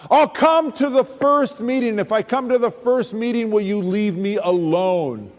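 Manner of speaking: blurted out, exasperated. Retold or imitated. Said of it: "I blurted out".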